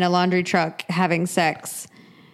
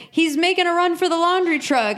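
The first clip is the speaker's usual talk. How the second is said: higher-pitched mock alert; imagined cop's alarm; 8 semitones higher than usual. Imagining a cop spotting Stan's escape, mock alarm. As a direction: pretend cop reporting a runaway. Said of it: "and then you hear, like, he's like".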